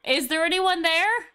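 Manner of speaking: bright Cockney try-out line; Cockney warm-up. Shown as a demonstration. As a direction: find the Cockney accent on "Is there anyone there?". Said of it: "the way I get into that accent".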